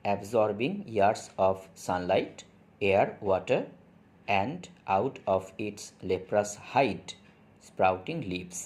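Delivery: slow, measured poem reading; poem recitation. Acted. Teacher reading poem aloud to students, slow recitation. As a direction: recite line by line, very slowly with pauses.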